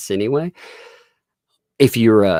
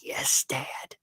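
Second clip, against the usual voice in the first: soft, high, mournful little voice; imitating a kid on the verge of tears; hushed mock sorrow; sad child; 5 semitones higher, 9 dB quieter than usual. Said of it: "she looks so sad".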